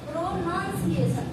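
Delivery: "प्रोनाउंसिएशन" slowly and carefully articulated; pronuncia corretta scandita. Shown as a demonstration. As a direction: model "प्रोनाउंसिएशन" slowly for pupils. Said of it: "not pronunciation".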